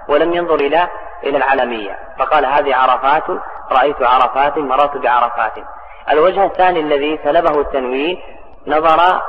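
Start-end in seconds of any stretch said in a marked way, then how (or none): 2.4-3.2 عرفات ending in nunated damma, "-tun"; tanween ending. Shown as a demonstration. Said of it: "فأبقاه كما هو على حاله". 3.7-5.5 عرفات and بعرفات ending in "-tin"; kasra with tanween. Shown as a demonstration. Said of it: "بكسرة مع التنوين".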